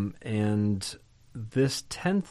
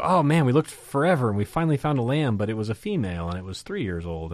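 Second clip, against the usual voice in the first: mock excuse; 3 dB louder, faster than usual. People explaining their failed search for a lamb, mock exasperated excuse.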